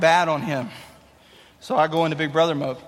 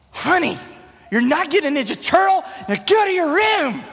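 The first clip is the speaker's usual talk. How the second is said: high mock-mom voice, shouting at the end; mom scolding; 8 semitones higher than usual. Mom refusing her son the toy, mock high scold. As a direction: play the mom telling her kid no. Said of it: "my mom's like".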